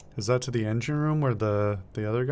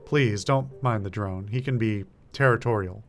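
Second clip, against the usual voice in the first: apologetic. Acted. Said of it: "his tone goes apologetic".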